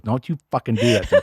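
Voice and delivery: quick, half-laughing mock warning; mock upset. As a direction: act out being upset, amused underneath. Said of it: "I've gotten really upset at that before".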